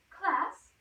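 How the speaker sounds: loud teacher call; calling the class. Acted. Teacher calling her class to attention. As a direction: call the room to order, high and loud.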